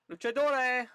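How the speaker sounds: thrilled gamer calling out "Luchadore!"; excited shout. Real, not acted. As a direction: blurt "Luchadore!" as you spot it. Finds the wrestling federation in menu.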